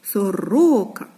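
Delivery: "Сорока" with the middle syllable stressed; stress on second syllable. Shown as a demonstration. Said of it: "наголос падає на другий склад".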